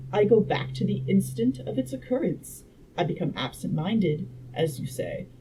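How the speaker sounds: measured audiobook reading; story narration. A narrator's reading. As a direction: read the scientist's explanation out like a storyteller.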